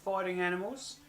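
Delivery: softly spoken Australian adventurer; thick Australian accent. Acted. Man boasts of fighting animals worldwide, thick Australian accent. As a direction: recount exploits in an Australian accent. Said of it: "talking in a thick Australian accent".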